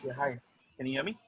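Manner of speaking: faint, hard to hear; barely audible voice; too quiet. Real, not acted. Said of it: "Your voice is very low".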